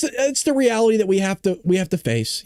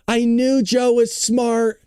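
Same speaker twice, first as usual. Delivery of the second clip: mock admiring reader; 4 semitones higher than usual. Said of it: "Democrats that are like".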